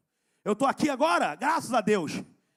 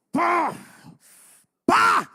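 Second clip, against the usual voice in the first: ordinary talk, nothing marked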